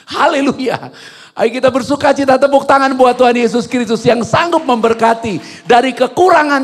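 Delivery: high, loud sermon delivery; impassioned preaching. Real, not acted. Preaches at full force. (khotbah berapi-api, lantang dan tinggi)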